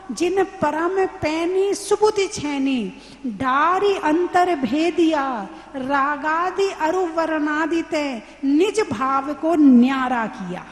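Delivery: slow, drawn-out scripture recitation; verse recitation. Acted. Teacher quoting a meditation verse to the class, slow recitation. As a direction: recite the verse slowly, stretching the syllables.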